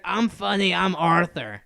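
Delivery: lightly hammed-up mock impression; Arthur. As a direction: mimic people doing a bad character voice. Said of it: "I hate when people do his voice".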